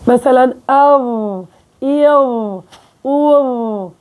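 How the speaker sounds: أو then إيو then أو, each hamza sounded with a different vowel slowly; slow letter drill of the hamza with each vowel; hamza vowel demo. Shown as a demonstration. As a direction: model أو إيو أو as open, rounded and front vowels after the hamza. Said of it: "جيب قبله همزة مفتوحة مضمومة مكسورة".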